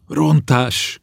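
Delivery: high-pitched outcry of alarm; frightened cry. A narrator's reading. Servant girl seeing the spell on shards, crying out. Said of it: "kiáltotta a szolgáló".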